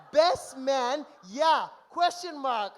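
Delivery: mocking repeat. Mocking repeat of the groom's text.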